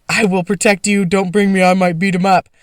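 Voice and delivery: lightly voiced fake-muscly bodyguard; a hint of puffed-up bravado, half joking; mock tough protector. To her sister, a mild mock tough-guy promise. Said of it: "super cool and protective and, like, fake muscly".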